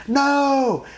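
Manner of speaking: high, loud screamed no; retold scream. Teacher screaming over the falls, high loud no. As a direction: yell it over the roar. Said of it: "He's screaming".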